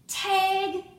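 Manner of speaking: high, loud playful call; playful tag. Acted. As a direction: call it out like a game. Teacher playfully tags her.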